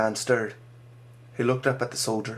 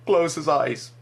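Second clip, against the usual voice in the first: higher, louder, near tears; choked plea; 5 semitones higher, 5 dB louder, slower than usual. Acted. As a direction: plead on the edge of sobbing. Boy near sobbing.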